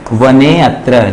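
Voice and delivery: वने अत्र said quickly, the अ almost swallowed; quick avagraha. Shown as a demonstration. Teacher shows the fast avagraha sound, quick. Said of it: "उच्चारण थोड़ा fast होता है".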